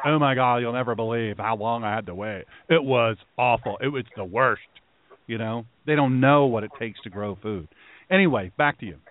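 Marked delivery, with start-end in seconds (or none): 0.1-4.6 lightly hammed-up whiny voice; whiny city person. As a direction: whine it like a spoiled urbanite.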